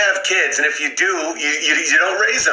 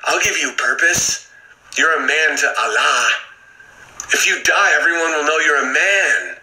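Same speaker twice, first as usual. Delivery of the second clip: lightly voiced persuader, a bit lower; hint of a coaxing recruiter, not truly whispered; whispering recruiter; 4 semitones lower than usual. Crazy person tempting purposeless men, lightly voiced whisperer. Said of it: "some crazy person whispering in their ear".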